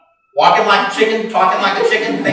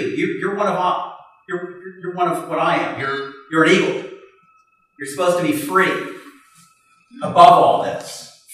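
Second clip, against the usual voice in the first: put-on softer, earnest old eagle; quiet, heartfelt appeal; earnest gentle persuasion; 3 semitones lower, 4 dB quieter than usual. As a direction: gently show them who they really are. Old eagle persuading the young one.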